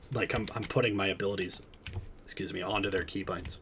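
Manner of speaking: talking through hiccups; hiccuping between words. Real, not acted. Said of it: "I can't stop hiccuping".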